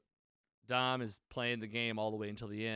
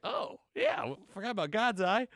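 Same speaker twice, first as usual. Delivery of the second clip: high-pitched, louder mock "oh yeah" with a rising squeak; mock dumb realization; 10 semitones higher, 6 dB louder than usual. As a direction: play it like you just remembered something obvious, in a high cartoon voice. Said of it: "And I was like".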